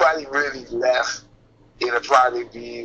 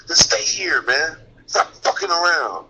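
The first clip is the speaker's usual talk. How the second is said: Curry impression. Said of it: "he goes over there with his rings on".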